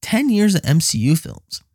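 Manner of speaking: high, pleading whine; mock whine. Husband pleading with his wife, high and whiny. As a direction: plead your case. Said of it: "I'm like".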